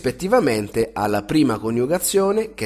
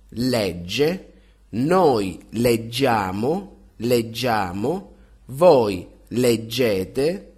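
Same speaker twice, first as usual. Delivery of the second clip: clear, measured teacher drill, each form said then repeated; conjugation drill; much slower than usual. Acted. Drilling verb conjugations aloud.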